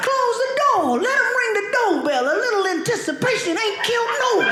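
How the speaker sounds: bossy dad. Retold or imitated. Dad lecturing Jesus at heaven's gate, mock bossy. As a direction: boss Jesus around about the door. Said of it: "he be like".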